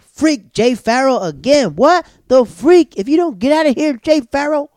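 high, loud irritated squeal, slow; frantic high internal complaint; exasperated inner rant. Retold or imitated. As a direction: squeal out the annoyance in your head. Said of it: "this is what I'm all thinking".

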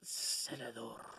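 slow, low Spanish "Senador" with a tapped r; a Spanish-accented "Senador". Retold or imitated. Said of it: "say it with the accent".

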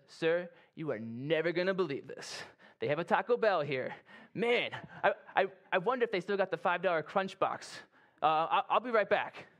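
hammed-up distracted soldier on the radio; lightly played soldier getting carried away; excitedly sidetracked while reporting to the officer. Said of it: "this soldier that's not listening".

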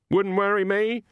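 put-on crotchety old woman brushing him off; tart old witch. A narrator's reading. Granny voiced by narrator.

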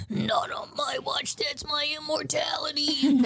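lightly voiced villain line, drawn out; mock villain. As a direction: draw out a mock villain's boast. Retelling villain's line in acted voice.

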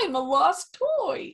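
Woody quote. Retold or imitated. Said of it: "you gotta do Woody".

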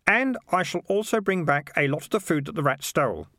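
lightly voiced lad stating his terms; confident boy Keith.

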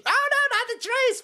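fake-gasp for the trees, high; mock dismay. Mocking tree lovers over the riot, high sarcastic wail.

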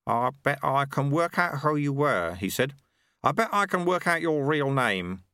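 put-on a genial old man making small talk; Lutze, amused, over a cup of tea; old monk Lutze. Lutze baiting Ronnie.

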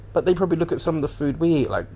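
normal talking voice

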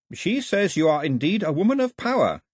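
a hint of a respectful young woman; Carlet's voice. A narrator's reading. Carlet relays the old woman's words, respectfully.

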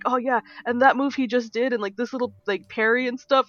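a mock-excited fan; imitated gushing boyfriend. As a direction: geek out over the parry. Boyfriend gushing over fight.

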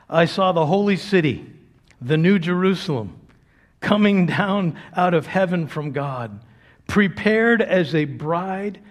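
slow, reverent reading of Revelation; hushed, awed scripture reading with music under it; scripture reading over music. Acted. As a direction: let the vision unfold slowly over the music.

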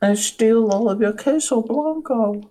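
high, playful bandit voice; cartoon bandit boasting; bandit character. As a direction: ham up a cheese-stealing bandit. Voicing the queso bandito.

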